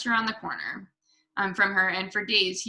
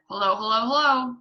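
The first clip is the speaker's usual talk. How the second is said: louder squawky parrot greeting; talking parrot; 2 semitones higher, 5 dB louder than usual. A narrator's reading. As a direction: call out like a parrot, building. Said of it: "Suddenly the parrot said".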